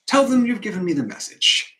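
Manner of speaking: loud, high command, falling away at the end; forceful order. Acted. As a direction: hit the first word hard, then come down. Rehearsing a line, second take.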